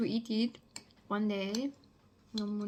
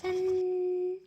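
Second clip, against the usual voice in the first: high bright ta-da reveal; excited ta-da; 8 semitones higher, 6 dB louder than usual. Real, not acted. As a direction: announce it with a flourish. Presenting finished dish.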